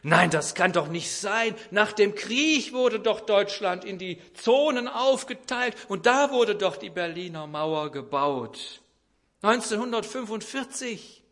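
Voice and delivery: a retold wife's loud protest; mother saying it loud. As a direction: push back loudly and high, sure of herself. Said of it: "Und das sagt sie jetzt auch laut".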